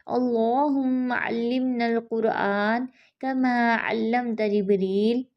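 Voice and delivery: slow, devout prayer; measured prayer recitation; slow supplication. Real, not acted. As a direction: plead gently and slowly.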